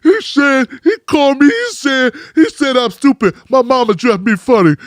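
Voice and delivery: stammering whiny fake sob; mock crying. Mocking rivals who whine after losing a fight, fake sobbing. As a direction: play the crybaby tattling. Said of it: "Now you crying about".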